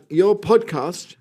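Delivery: attempted Northern English accent; slow attempt at a Northern English accent. Starting a listener's letter, attempted Northern English accent. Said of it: "my Northern accent".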